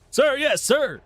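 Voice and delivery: high, bright chorus of soldiers answering; eager recruits. Acted. Recruits answering their commander, high and eager. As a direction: bark it back like keen new recruits.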